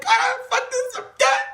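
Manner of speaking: high, tearful pleading with laughter; hammed-up tearful plea; mock crying plea. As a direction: beg God to show love, half sobbing. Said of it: "And I'm crying".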